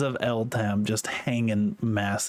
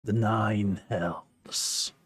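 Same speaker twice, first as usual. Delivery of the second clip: demonic voice; 4 semitones lower, much slower than usual. Acted. Demonic book answers the question.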